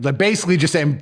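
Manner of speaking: usual speaking voice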